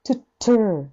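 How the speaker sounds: トゥットゥー with the first トゥ small and the second トゥー heavy; 後半を重く; light then heavy. Shown as a demonstration. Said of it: "トゥー不定詞の方がちっちゃいの".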